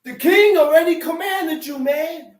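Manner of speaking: heated retelling of a reprimand; acted rebuke. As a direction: scold him as if he defied orders. Acts out rebuke of the soldier.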